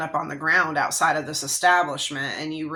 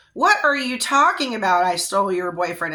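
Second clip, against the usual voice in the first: incredulous retort; 4 dB louder than usual. Retold or imitated. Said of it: "yelling at you".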